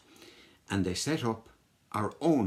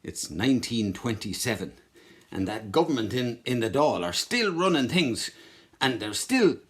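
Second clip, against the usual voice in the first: IRA man again; 3 semitones higher, 4 dB louder than usual. Acted. IRA man complains to the children about England, growing heated. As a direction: build up the grievance. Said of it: "I'm a member of the I R A".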